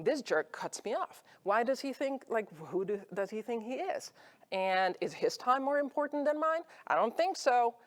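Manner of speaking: half-acted outrage at the driver; mock seething rant. Speaker voicing her thoughts at the jerk driver, mock seething.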